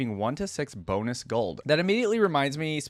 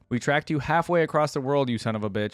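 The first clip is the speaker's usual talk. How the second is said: mild shout; 2 semitones higher than usual. Acted. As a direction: call out to the outlaw inside. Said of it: "shouted the same voice".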